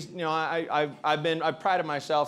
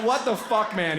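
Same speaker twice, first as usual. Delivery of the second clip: mock outraged whine; 6 semitones higher than usual. Retelling the rejected guy's line, hammed up and whiny. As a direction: ham up his wounded outrage. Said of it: "he said to himself was so good".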